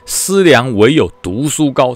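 very slow, measured recitation; recited maxim. Retold or imitated. Commander recites a classical maxim to the soldiers, slow and solemn. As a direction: intone the old saying line by line. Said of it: "我说，古时候啊".

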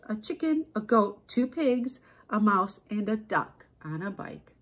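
measured read-aloud, listing item by item; storybook narration. A narrator's reading. Narrator closing the tale of animals on bikes, storybook narration. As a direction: narrate it, pausing between each animal. Reads a picture book.

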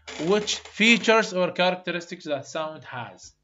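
slow, loud dictation of the question; slow question reading. Shown as a demonstration. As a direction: dictate each English word to the class. Teacher reads exam question aloud.

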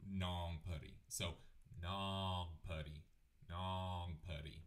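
nongpuri with a nasal first syllable as if holding the nose. Shown as a demonstration. Teacher showing the class how nongpuri sounds nasal. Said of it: "holding my nose when I say".

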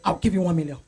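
a hint of the generous senator; senator's offer. Senator offering the club a donation, mildly voiced. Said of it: "And Senator will say".

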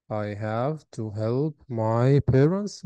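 slow, drawn-out model sentence; slow full sentence. Shown as a demonstration. Teacher reading the sentence back to pupils, slow. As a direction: read the sentence slowly and clearly.

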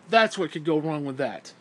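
matter-of-fact, scornful answer; pointed answer. Real, not acted. Ranter answers his own question for Christians, bluntly. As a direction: land it as the blunt payoff.

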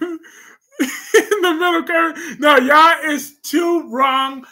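loud, slow words broken by laughter; laughing outburst. Real, not acted. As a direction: laugh while you protest. Laughing, shouting at chat.

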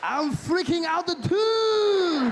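high, loud laughing lines. Retold or imitated. Comic and Japanese man crack up, high loud laughing.

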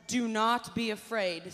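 loud, slow, firm declaration; proclaiming loudly. Shown as a demonstration. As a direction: announce it boldly and slowly. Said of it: "God tells us".

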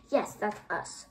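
lightly nasal, sharp woman. Acted. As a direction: pinch it a little through the nose. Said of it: "in a sharp, n-, nasally voice".

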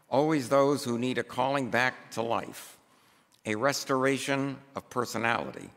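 measured, emphatic pulpit reading; formal read-aloud. Acted. Preacher reads a book passage to the congregation, measured formal reading. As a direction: read it out deliberately, phrase by phrase.

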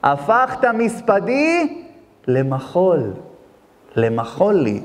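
tearful prayer. Retold or imitated. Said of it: "אמר לו".

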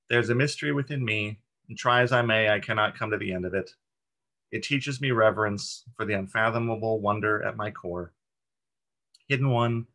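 measured, reverent reading aloud; poem reading. Acted. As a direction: read the verse with deliberate phrasing, a little lifted. Reads a meditation poem aloud.

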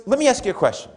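high, calm coaching voice; coach's voice. Retold or imitated. Martial arts coach questioning the woman, high and calm. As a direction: pose it like a patient instructor. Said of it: "he goes".

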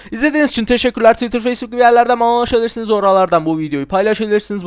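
quick YouTuber goodbye; rushed outro. Acted. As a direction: rattle through the channel outro. Rattles off standard outro.

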